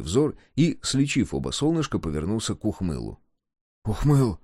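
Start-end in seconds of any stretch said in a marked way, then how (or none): 3.8-4.4 higher, pleading call of a name; a touch of a whine, calling; plaintive call. A narrator's reading. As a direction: call him pitifully for attention. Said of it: "жалобно позвал он".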